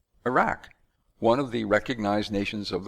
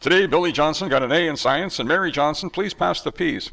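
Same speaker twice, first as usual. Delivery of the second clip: newsreader at dinner; 3 semitones higher, 4 dB louder than usual. Pretend. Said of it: "Do you imagine Bill Johnson at home around the dinner table?".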